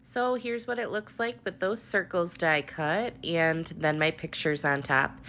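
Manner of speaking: blocked nose voice; talking through a stuffy nose. Real, not acted. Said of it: "I sound a little stuffy".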